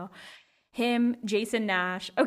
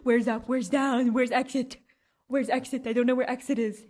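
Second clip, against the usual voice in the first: lost coming out of the portal; bewildered mock panic; dazed; 2 semitones higher, 4 dB louder than usual. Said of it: "and I go".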